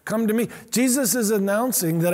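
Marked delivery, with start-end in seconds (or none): 0.0-0.5 "me" lifted and leaned on; stress on me. Shown as a demonstration. Preacher stressing Jesus's call, "me" emphasized. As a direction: land on "me". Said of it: "I draw emphasis there".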